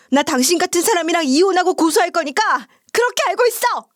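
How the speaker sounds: high-pitched outraged tirade; furious yelling. A narrator's reading. Wife turns on husband and in-laws, high angry yelling. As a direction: let rip at them, voice pitched right up. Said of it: "시댁 식구들한테 막 소리 지르기 시작했어요".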